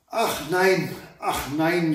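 a touch of wailing; princess lamenting. Acted. Princess begs the maid not to knock, lightly wailing. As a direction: whimper like a frightened princess. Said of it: "jammerte die Prinzessin".

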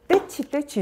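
high, loud mock scold of a toddler's table; sing-song high parent scolding the furniture. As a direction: pretend to punish the table for a crying child. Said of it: "이러면서 탁자를 때리면".

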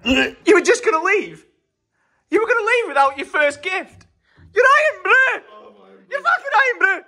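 mock Scottish. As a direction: shout it like a wronged Scotsman. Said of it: "Just can't get the Scottish friends".

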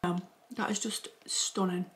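breathy whisper, savouring it. Real, not acted. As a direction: whisper it slowly in delight. Savouring first bite, whispered.

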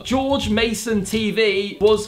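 very slow, emphatic dictation; typing aloud. Real, not acted. YouTuber correcting the AI, very slow typing voice. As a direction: say it word by word as you type.

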